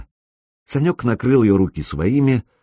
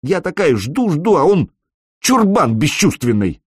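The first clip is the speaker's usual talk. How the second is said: pouting complaint; 7 semitones higher, 3 dB louder than usual. A narrator's reading. Alena complains teasingly.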